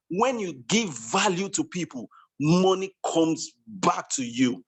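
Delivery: measured repetition, slowing right down on the payoff. Real, not acted. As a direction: drive the maxim home, stretching out the ending. Repeats maxim for the chat room.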